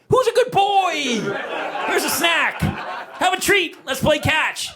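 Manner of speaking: high gushing talk to a dog; puppy praise. Retold or imitated. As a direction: switch to sweet praise for the dog.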